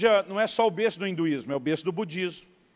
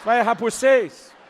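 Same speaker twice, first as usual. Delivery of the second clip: louder, slower, laughing; playful teasing; 3 semitones higher, 9 dB louder, slower than usual. Retold or imitated. Pastor joking with the donor on the phone. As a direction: rib him with a laugh. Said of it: "Eu tô brincando com ele".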